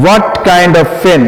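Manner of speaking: very slow, each word apart; slow dictation. Shown as a demonstration. Teacher dictating the question slowly to students. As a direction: stretch it out for note-taking. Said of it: "এটা কিন্তু শুধু what হবে না".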